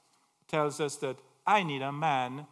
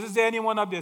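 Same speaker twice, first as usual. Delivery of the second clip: desperate call; 6 semitones higher, 7 dB louder, much faster than usual. Acted. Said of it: "And he says".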